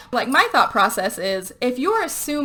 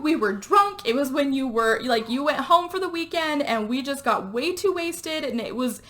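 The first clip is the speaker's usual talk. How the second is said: higher-pitched mock pleading; pleading excuse; 4 semitones higher than usual. Friend confessing to cheating, retold as high pleading.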